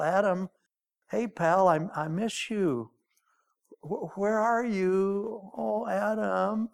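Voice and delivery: soft, slow, aching call; gentle pleading call; plaintive call. Shown as a demonstration. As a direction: call him like a father missing his son. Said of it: "it was a plaintive call".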